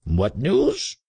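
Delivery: high, rising echo of the question; musing. A narrator's reading. Trader pondering the hermit's question, musing aloud. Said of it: "mused the traitor".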